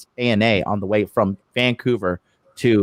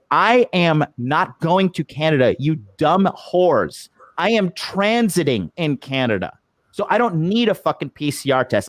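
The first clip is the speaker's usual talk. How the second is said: retold anger; 3 semitones higher than usual. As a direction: spell it out in exasperation, word by word. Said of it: "I'm so angry".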